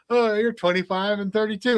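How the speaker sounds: high mock quiz host; random score announcing. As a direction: mimic your own score call. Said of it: "And it was like".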